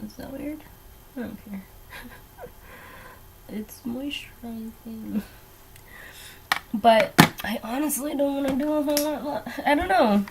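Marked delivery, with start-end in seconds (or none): 0.0-5.2 whisper. Real, not acted. Justifying lip balm on her nose.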